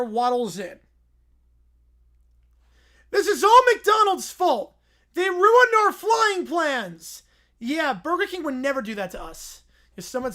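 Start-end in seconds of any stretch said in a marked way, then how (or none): 3.1-7.2 bear character voice. Acted. Little Bear voiced in story.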